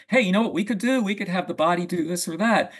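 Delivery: lightly mock an eager studio brainstorm; imitating juvenile eagerness; juvenile enthusiasm. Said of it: "it sounds juvenile".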